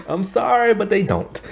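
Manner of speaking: high-pitched, laughing through the words; laughing apology. Real, not acted. Reviewer apologizing for mocking Canadians' accents, laughing. Laughing at her own blunt verdict.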